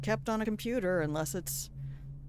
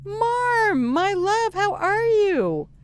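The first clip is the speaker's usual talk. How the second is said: put-on very high, loud, gushing old lady voice; high granny greeting; 11 semitones higher, 6 dB louder, slower than usual. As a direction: coo at the cat like a doting grandma. Greets pet Marmalizer, high voice.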